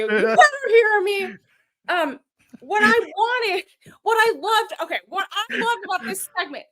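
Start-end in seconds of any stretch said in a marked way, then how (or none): 0.0-1.2 high, loud playful threat; mock heel shout. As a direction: bark it like a wrestling heel.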